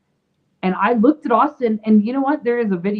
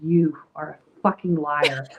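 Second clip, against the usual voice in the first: blunt accusation; 5 semitones lower, slower than usual. Retold or imitated. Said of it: "looked her in the eye and said".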